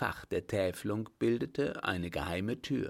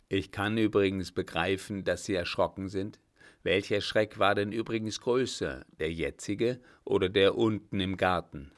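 put-on an old captain's voice, louder and firmer than the narration; 3 dB louder than usual. The old captain to the startled director, louder and firm. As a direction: speak as the old master calming a frightened man.

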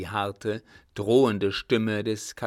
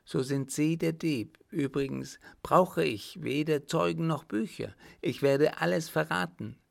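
higher-pitched, defiant voice; accusing baroness; 6 semitones higher than usual. Acted. Baroness threatening to betray everything, defiant. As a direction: threaten back in a raised pitch.

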